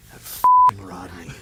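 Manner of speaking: slow, drawn-out exasperation; mock teacher's lounge rant; fed-up teacher. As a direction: grumble about a hated pupil, slowly.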